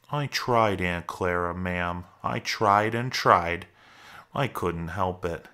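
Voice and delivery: slow, mildly helpless plea; pleading excuse. Acted. Lenny answers Aunt Clara's scolding, pleading mildly.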